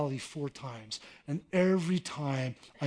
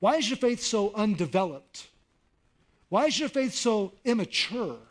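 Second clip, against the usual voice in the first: gently probing; 3 semitones higher than usual. Shown as a demonstration. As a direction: press them kindly to grow. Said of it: "he's basically saying".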